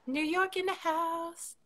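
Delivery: high, slow hype shout-out; hype announcer. Real, not acted. Hyping up friend from New York.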